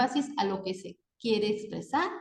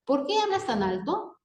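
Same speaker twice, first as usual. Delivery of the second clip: higher, rising question on "por qué hablas tan alto"; 4 semitones higher than usual. Shown as a demonstration. Teacher giving an example of a direct question, questioning tone. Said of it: "las oraciones interrogativas".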